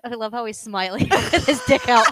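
laughing hard through the words. Real, not acted. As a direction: laugh it out, slowly. Laughing at picture.

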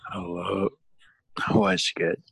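goofy greeting voice. Pretend. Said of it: "What did you just say?".

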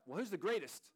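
mock challenge. Disciple starts the argument.

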